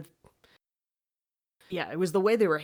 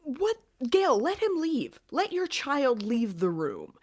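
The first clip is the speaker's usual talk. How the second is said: indignant protest; 5 semitones higher than usual. Acted. Viewer scolding Gail to let her child leave, indignant. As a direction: protest in disbelief, stretching out the demands. Indignant plea on behalf of son.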